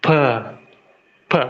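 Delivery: slow, spaced out P as a demo; Russian P. Shown as a demonstration. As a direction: say P, P as the Russian letter. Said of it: "this is going to be the Russian P".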